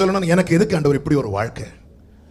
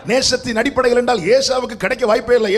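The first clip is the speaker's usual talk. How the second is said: ordinary talk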